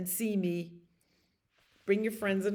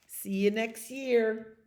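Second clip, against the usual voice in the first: put-on child's goodnight; 4 semitones higher, slower than usual. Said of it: "That's what he says when".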